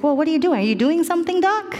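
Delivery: high, quick puzzled questions. Retold or imitated. Numb patient asking the doctor what he's doing, puzzled. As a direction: pitch climbing in innocent bewilderment.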